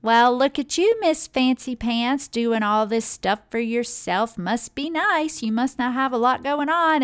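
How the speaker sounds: drip fake admiration to belittle her; catty sarcasm. Woman teasing a stranger about her night out, sarcastic. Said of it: "I heard another woman say".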